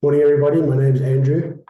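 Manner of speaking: hoarse, croaky from the flu. Real, not acted. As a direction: speak through a croaky throat. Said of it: "croaky voice this morning".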